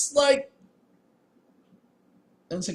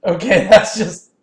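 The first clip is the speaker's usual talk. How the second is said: laughing loudly; 6 semitones higher, 8 dB louder than usual. Real, not acted. Laughing outburst at the game.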